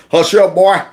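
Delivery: lightly mocked Southern accent; Southern slave master accent. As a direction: mimic a Southern master's command. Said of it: "the old Southern slave master accent".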